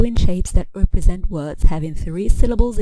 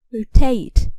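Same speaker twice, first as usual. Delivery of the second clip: "rotate" stressed on its second syllable, higher pitched; 4 semitones higher than usual. Shown as a demonstration. Teacher showing verb stress to learners, "rotate" stressed on second syllable. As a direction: hit the last syllable of "rotate". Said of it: "Verbs stress the second syllable".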